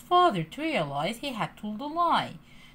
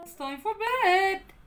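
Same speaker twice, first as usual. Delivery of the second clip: warm and smiling; 9 semitones higher, 4 dB louder than usual. A narrator's reading. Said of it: "said with a smile".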